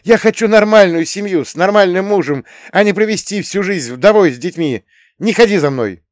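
high, loud rapid shouting; girl shouting fast, high and loud; rattled off fast. Acted. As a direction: fire it out in one angry breath. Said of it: "быстро протараторила".

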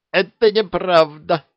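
high, loud squeaky protest; squeak. A narrator's reading. Shy lieutenant objects to Harry's mockery, squeaking. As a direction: squeak it out indignantly. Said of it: "пропищал Окопник".

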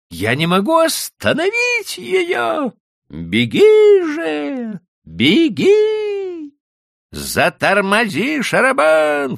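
very high, loud frantic yells; shouting. A narrator's reading. Wife and husband yelling over the runaway donkey, frantic shouting. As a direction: scream for the cart to brake. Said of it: "кричал я".

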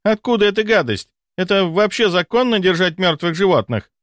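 high-pitched indignant lady's voice; offended lady. A narrator's reading. Lady complaining about a dead animal, high and indignant.

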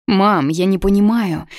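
bewildered. Acted. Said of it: "растерянно проговорила я".

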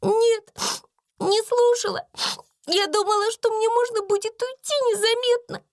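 очень высоко, со всхлипами и запинками; лепетать сквозь слёзы; испуганная служанка Бекки. A narrator's reading. Бекки оправдывается. (плачущая Бекки оправдывается)

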